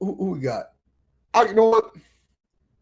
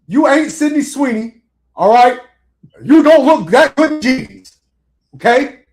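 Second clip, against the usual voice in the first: mock coach scolding; 5 semitones higher, 3 dB louder than usual.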